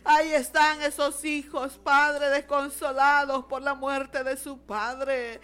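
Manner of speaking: pleading, rolling intercessory prayer; fervent prayer. Real, not acted. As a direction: plead with God for grieving families.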